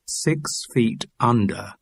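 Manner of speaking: slow, rhythmic list entry; measured headword in a recited list; catalogue rhythm. A narrator's reading. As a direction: read it off like a catalogue. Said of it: "You're getting a rhythm to the words".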